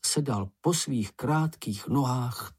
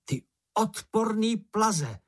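higher, slow, mock-fierce name-calling; insulting yell; 9 semitones higher, slower than usual. A narrator's reading. Moomin hurls insults at the bush, mock-fierce yelling. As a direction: taunt the monster with childish fury. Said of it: "zahulákal Mumínek".

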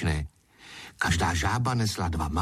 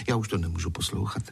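usual speaking voice

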